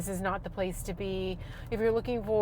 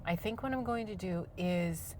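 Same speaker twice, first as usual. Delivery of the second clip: calm, softer voice; talking lower; 6 dB quieter than usual. Shown as a demonstration. Reminding herself on camera to talk lower and softer. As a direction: keep it low and calm. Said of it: "talk, talk lower".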